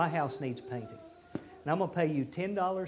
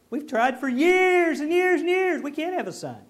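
Abraham protesting; 8 semitones higher, 7 dB louder than usual. Retold or imitated. Abraham answering God about a son, pleading. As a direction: plead that it is impossible.

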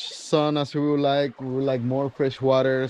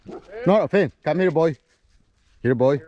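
calling a dog; 3 semitones higher, 3 dB louder than usual. Real, not acted. Calling dog away from bear.

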